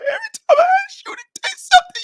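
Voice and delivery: very high, fast mock sobbing complaint; hammed-up tearful wife; imitating crying wife. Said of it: "Why you crying?".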